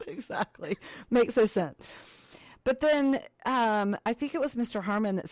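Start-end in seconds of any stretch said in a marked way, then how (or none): 0.1-0.8 whisper. Real, not acted. Whispered reply.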